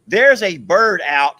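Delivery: loud, slowed alarm. Real, not acted. Husband telling wife birds escaped, loud alarm. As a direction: sound the alarm about loose birds.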